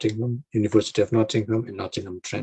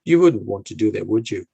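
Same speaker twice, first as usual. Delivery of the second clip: polite hint; 6 dB louder than usual. Shown as a demonstration. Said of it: "I would say".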